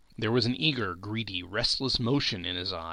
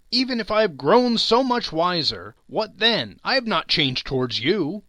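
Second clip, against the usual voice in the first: louder, higher, defensive; raised defensive reply; heated retort; 7 semitones higher, 6 dB louder than usual. A narrator's reading. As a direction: push back hard. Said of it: "he retorted".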